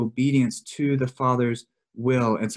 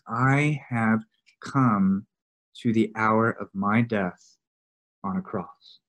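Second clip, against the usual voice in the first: slow, weighty, lower delivery with pauses; solemn quote; 3 semitones lower, slower than usual. Retold or imitated. Preacher quoting Jesus on the hour of his death, solemn.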